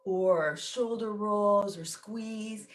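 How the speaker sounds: measured, pausing meditation guide; guided meditation. Real, not acted. Teacher settling a group into meditation, guided meditation. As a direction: ease listeners gently into stillness, leaving space between phrases.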